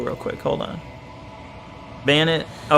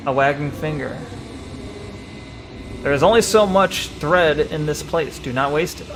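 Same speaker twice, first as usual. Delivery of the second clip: measured, solemn read-aloud; game text narration. Acted. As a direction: read it gravely, sinking at the ends.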